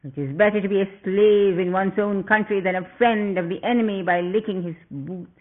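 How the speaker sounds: furious demon prince snarling; snarled. Acted. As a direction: spit out each accusation at the traitor. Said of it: "and snarled".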